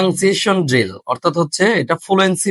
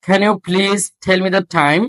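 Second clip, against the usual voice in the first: very slow, deliberate reading with breathy stops; slow drill; much slower than usual. Shown as a demonstration. Teacher slowly modelling a question for students. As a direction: read it slowly, puffing each stop. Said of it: "খ sound, ফ sound, ঠ sound".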